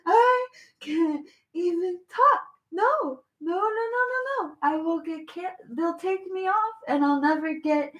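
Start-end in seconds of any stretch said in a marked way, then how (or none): 0.1-2.4 slow, fading fake whimper; mock sob. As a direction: let the parody cry die out. Mocking quote, fading sob.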